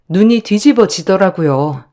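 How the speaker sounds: ordinary delivery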